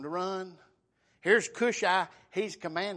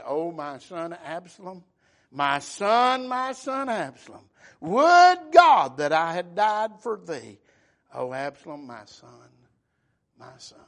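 grieving lament; 10 dB louder than usual. Retold or imitated. Preacher voices David mourning his son Absalom, grieving lament. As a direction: cry out the grief, then let it fade, without real weeping. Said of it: "and that he wept".

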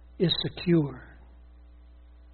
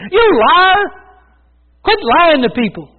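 raised, higher voice yelling at the TV; mock holler; 8 semitones higher, 4 dB louder than usual. Preacher hollering back at a TV preacher, mock yell. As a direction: call him a liar, half-playful. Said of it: "I wanna say".

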